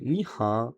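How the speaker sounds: "ni ha" ending on an open A; final O dropped. Shown as a demonstration. Teacher models the polite hello, "ni ha" with the final O dropped. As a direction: say "ni ha" with no O at the end. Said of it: "on prononce pas le O à la fin".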